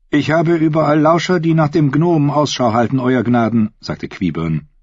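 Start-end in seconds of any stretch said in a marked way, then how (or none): 0.1-3.7 higher, measured courtier voice; smooth courtly advisor voice. A narrator's reading. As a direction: speak like a silky royal advisor. Qyburn voiced.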